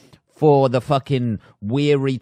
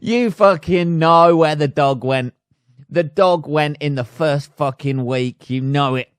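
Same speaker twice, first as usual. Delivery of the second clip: gleeful accusation; 5 semitones higher, 7 dB louder than usual. Real, not acted. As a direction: hammer it home, delighted. Accusing the missing man.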